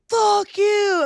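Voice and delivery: retold curse. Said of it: "And I'm like".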